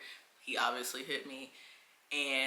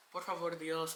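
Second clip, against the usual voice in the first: laughing prayer. Retold or imitated. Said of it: "I'm praying".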